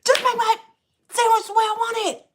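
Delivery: high, loud demand that breaks into laughter; scolding the Subway worker, loud and laughing; retold angry yell. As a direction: bark the order, then crack up. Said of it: "I lost my entire shit on him".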